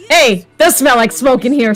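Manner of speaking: light Brooklyn accent imitation. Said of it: "breaks out in, like, a Brooklyn accent".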